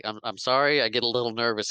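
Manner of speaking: mildly flustered imitation of an apology; sheepish apology. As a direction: stammer a small excuse. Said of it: "He's like".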